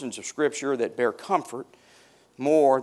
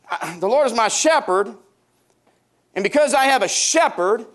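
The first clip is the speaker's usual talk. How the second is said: impassioned preaching; 4 dB louder than usual. Acted. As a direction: preach it out with full force. Preaching building to full force.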